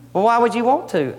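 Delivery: high, pleading why; pleading question. Acted. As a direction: ask God in a rising plea.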